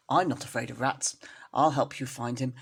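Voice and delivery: a no-nonsense neighbour taking charge; stern neighbour. Acted. Stern neighbour cat Ribby.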